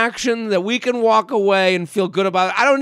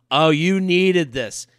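flattering masseuse; 4 semitones lower, slower than usual. Retold or imitated.

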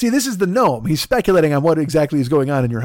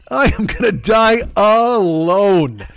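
mock despair; slower than usual.

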